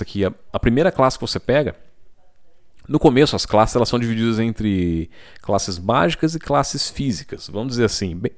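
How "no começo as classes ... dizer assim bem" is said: talking through hiccups; hiccuping between words. Real, not acted. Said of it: "agora eu tô com soluço".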